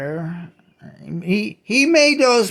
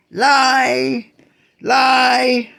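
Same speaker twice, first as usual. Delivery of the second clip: raised, insistent accusation; indignant repetition; 6 semitones higher than usual. Real, not acted. Ranter keeps accusing God of lying, raised. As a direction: keep hammering the word home.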